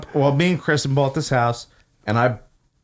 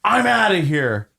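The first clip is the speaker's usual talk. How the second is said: mimicked irate customer; pitched-up threat of an outraged diner; retold anger. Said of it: "he was that mad".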